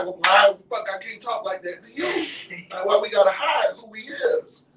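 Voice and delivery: loud, high comic outrage; indignant protest. Retold or imitated. Ghetto friend objects to hiding who they are, loud protest. Indignant retort to being hushed.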